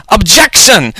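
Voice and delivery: put-on high-pitched Russian-accented objection. A narrator's reading. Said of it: "in her Russian accent".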